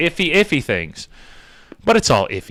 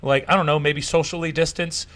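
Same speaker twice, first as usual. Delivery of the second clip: mock naive; 3 semitones higher than usual. Real, not acted. Scene: mocking Fauci's repeat advice, faux-innocent. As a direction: play dumb to mock the advice. Mock-dumb sarcastic questioning.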